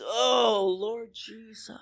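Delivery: re-enacted gasp of prayer, fading away; mock overwhelmed prayer. Preacher re-enacting crying at a conference, mock overwhelmed prayer. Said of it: "I do one of these".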